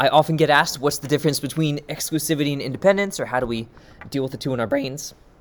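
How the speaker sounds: voice breaking and cracking up high mid-sentence. Explaining probability formulas in a lesson, voice cracking. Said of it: "that voice crack".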